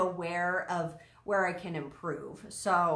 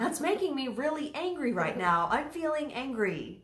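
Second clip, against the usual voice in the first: calm angry statement; 6 semitones higher than usual. Retold or imitated. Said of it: "I'm like".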